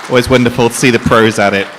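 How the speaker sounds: loud, carrying emcee call to the room; rally the crowd to clap; calling for applause. Real, not acted. Host calling the audience to applaud the performers, loud.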